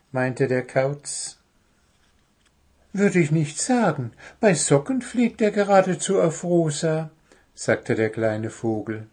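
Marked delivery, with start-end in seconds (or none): 2.9-7.1 high, chirpy bird voice; high-voiced storybook bird; little bird character. A narrator's reading. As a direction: answer as a small bird, pitched up.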